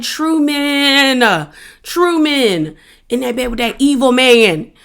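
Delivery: drawn-out, disappointed wail of the name; dismayed pleading. Retold or imitated. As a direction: reproach him like a let-down friend.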